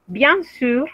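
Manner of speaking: "sûr" with lips rounded and pushed forward; French u model. Shown as a demonstration. Teacher modelling the French u for students. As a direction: round the u in "sûr" tightly, not the Spanish u. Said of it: "esa U hay que practicarla".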